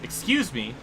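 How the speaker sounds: high, loud mock outrage at a rival; indignant outburst. Real, not acted. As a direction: protest at the car behind you. Yelling at AI driver in game.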